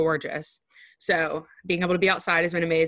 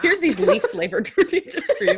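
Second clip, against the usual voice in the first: mock presenter voice; 8 semitones higher, 5 dB louder than usual. Mock offering leaf flavored chips.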